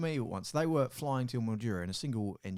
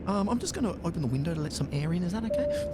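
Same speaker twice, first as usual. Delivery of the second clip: casual captain; 3 semitones higher, 5 dB louder than usual. Pretend. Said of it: "getting you to say the".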